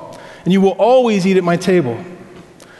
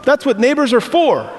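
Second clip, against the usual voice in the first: imitated Middle Eastern accent, pitched higher; thick Middle Eastern accent; 7 semitones higher than usual. Neighbor waves off thanks for mowing, in a Middle Eastern accent. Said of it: "He's got the thick accent".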